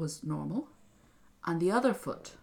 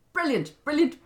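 excited repeat; 8 semitones higher, 7 dB louder than usual. A narrator's reading. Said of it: "the queen thought".

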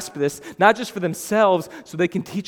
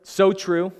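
mock excited affirming; 4 dB louder than usual. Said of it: "not excitedly affirming his statement".

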